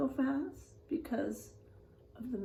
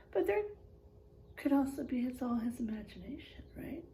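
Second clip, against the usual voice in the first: whisper; 7 dB quieter, faster than usual. Real, not acted. Aside to the class.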